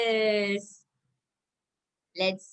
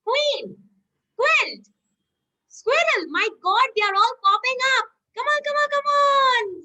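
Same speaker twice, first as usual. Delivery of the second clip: high, hurried game-show excitement; excited urging; 8 semitones higher, 3 dB louder than usual. Pretend. Teacher urging children to hit the moles popping up, excited. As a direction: call them out as they pop up. Urging as pictures all pop up.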